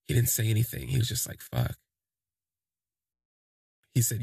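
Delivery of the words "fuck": a low, dazed swear under the breath; low stunned curse. Retold or imitated. Retelling the guy's stunned reaction, a low muttered curse.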